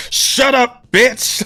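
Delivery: loud, high wrestler-style shout; The Rock. Retold or imitated. Podcaster imitating a wrestler clip for a sound alert, shouted. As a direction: belt it out like a wrestler telling someone off. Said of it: "that little clip of The Rock".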